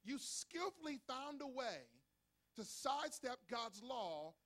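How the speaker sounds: slow, deliberate preacher's delivery; emphatic scripture reading. Acted. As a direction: stretch the key words as you declaim. Reads scripture aloud, preaching.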